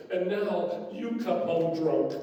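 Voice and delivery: a slow, deliberate accusation; slow punchline. Acted. Wife at the door accusing husband of drinking, slow and pointed. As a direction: land the zinger slowly.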